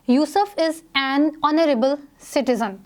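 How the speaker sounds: slow, careful reading of the sentence; example read aloud. Shown as a demonstration. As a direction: read it slowly for students. Reads example sentence slowly. (धीमे से उदाहरण पढ़ना)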